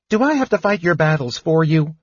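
high, peeved kender voice; irritable. A narrator's reading. Kender scolding fallen dwarf, irritable. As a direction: complain crossly in a high voice. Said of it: "he said irritably to Flint".

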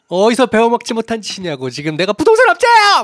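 high, loud indignant yell; angry outburst. Retold or imitated. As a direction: rant like an offended lawmaker. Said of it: "막 화를 내잖아요".

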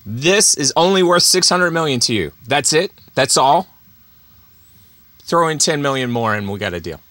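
a hint of a smug dealmaker; totally cool. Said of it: "He was totally cool".

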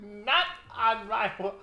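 high drawn-out sass; slow mock diva line; sassy catchphrase again. Repeats catchphrase.

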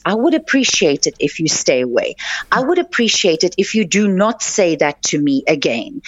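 calm, even and unhurried, no edge. Shown as a demonstration. Telling an office bully to back off, calm and steady. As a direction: set a firm boundary without raising your voice. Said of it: "in a very calm way say".

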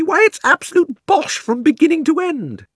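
put-on high, loud girlish scorn; indignant girl's shout. Polly scorns the Queen's story, high and loud. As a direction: blast the whole story as nonsense. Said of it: "shouted Polly".

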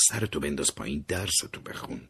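breathy unvoiced plea, almost no sound; pleading whisper. Begging brother to keep studying, whispered. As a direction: beg him under your breath. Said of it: "با التماس گفتم".

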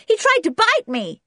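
very high, loud yelp; alarmed American boy. A narrator's reading. Junior scared by the growling dog, high loud alarm. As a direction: cry out to Dad in alarm.

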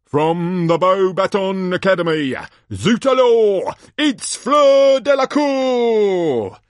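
booming showman, stretching the big names; hammed-up ringside introduction; excited tournament announcer. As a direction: whip up the crowd, building to a loud high cry. Announcer introduces next champion.

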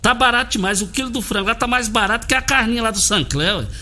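punchy radio ad read; hard sell ad. Acted. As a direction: sell the deals with energy. Host reads supermarket ad.

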